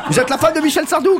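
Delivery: high, loud words through laughter; can't hold the laugh in; real laughter breaking into the question. Real, not acted. Host cracking up at caller.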